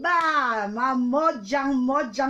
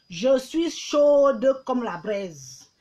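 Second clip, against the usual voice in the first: slow teasing boast; much slower than usual. Pretend.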